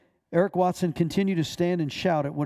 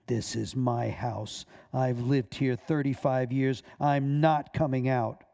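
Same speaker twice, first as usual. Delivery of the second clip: insolent demon voice; 2 semitones lower, slower than usual. Acted. Demon refusing to leave the woman, slow insolent defiance. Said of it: "In an insolent voice, not in the least like Esther's".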